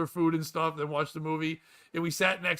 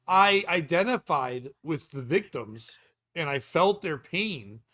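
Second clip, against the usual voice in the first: very slow, emphatic fake sincerity; mock solemn testimony; 4 dB louder, slower than usual. Co-host rehearses a fake lawsuit claim, mock solemn. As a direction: draw it out like a heartfelt plaintiff.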